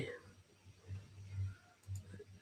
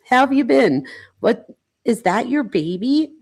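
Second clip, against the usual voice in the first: toned-down text voice; 6 semitones higher, 3 dB louder than usual. Pretend. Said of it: "I can't do that all the time".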